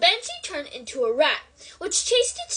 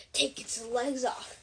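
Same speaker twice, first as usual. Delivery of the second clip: low, slow mutter under the breath; 4 semitones lower, 7 dB quieter, slower than usual. A narrator's reading. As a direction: mutter it to yourself, slowly. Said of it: "Ron was muttering to himself".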